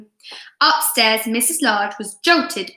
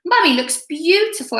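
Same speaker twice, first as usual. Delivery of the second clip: higher, eager exclamation; a boy's bright exclamation; exclaiming; 6 semitones higher than usual. Acted. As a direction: blurt it out proudly. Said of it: "exclaimed Lester".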